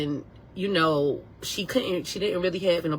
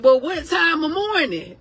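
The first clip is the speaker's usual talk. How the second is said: surprised question; 10 semitones higher, 5 dB louder than usual. Retold or imitated. Retells her puzzled reply.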